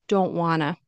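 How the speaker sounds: "don't wanna" with a glottal stop after "don't". Shown as a demonstration. Teacher demonstrating the glottal stop in casual speech. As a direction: cut the T short in "don't". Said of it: "remember the glottal stop".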